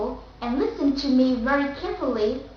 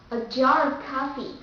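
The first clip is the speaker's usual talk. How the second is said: jar of coffee with American R; American accent. Shown as a demonstration. Teacher giving the last example, American accent. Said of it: "The first will be American accent".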